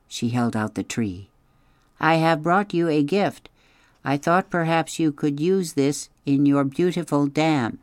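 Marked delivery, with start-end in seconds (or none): 2.0-7.8 calm, even robot voice, a little higher; a gentle machine greeting strangers politely; robot Roz. Acted. Roz offers a gift.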